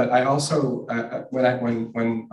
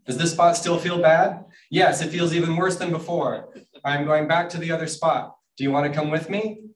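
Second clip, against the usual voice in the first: higher, emphatic storybook voices; raised, declarative picture-book delivery; mildly yelled dialogue; 5 semitones higher than usual. Acted. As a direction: read the exchange in a half-shout. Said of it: "I just yell my books".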